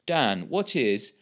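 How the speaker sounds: formal broadcast read; newsreader voice. Real, not acted. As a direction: announce it like the evening news. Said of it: "I said that like a newsreader".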